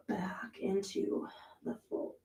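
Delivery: breathy, effortful whisper through the stretch; strained whisper. Real, not acted. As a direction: barely voice it while straining. Strained cue mid pose.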